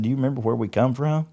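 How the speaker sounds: heated retold plea to his wife; fervent retort. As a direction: insist "we're those people" with rising fire.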